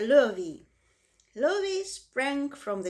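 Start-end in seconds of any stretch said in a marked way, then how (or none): 0.0-0.7 louder call of the name. A narrator's reading. Zuckerman calling his hired man for water, loud call. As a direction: call the name across the ring.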